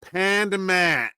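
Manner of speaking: drawn-out attempt at a Yinzer accent; tentative, stretched-out Yinzer pronunciation. Shown as a demonstration. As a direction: try the name slowly in a Pittsburgh Yinzer accent. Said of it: "said with a ridiculous Yinzer accent".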